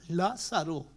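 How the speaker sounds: eco suave y distante; un Lázaro que se desvanece a lo lejos; eco lejano. Retold or imitated. La gente repite en eco. (eco débil del llamado)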